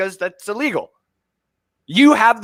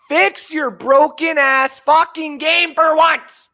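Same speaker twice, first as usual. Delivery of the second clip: angry demand; 8 semitones higher, much slower than usual. Real, not acted. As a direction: order them to fix it, word by word. Ranting at Madden.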